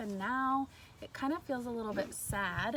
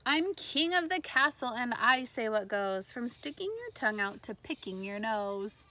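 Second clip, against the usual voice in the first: story reading. Acted. Teacher reading the boy's boast to her class, playful storybook voice. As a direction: read it like a playful little king.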